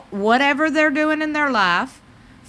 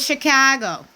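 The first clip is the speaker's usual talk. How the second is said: badly faked Chicago accent; playful, amateur Chicago accent; 3 semitones higher than usual. Shown as a demonstration. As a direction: put on a hammy Chicago accent for "Chicago". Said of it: "I know that was horrible".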